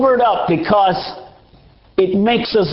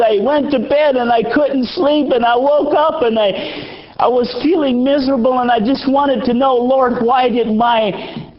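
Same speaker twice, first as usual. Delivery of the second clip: higher, lamenting retelling of the aunt's sorrow; mild lament, higher voice; grieving aunt; 5 semitones higher than usual. Retold or imitated. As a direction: cry out her why, pitched up.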